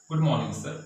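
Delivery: a touch of volume, confidently put; loud, clear greeting. Acted. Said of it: "in loud voice and".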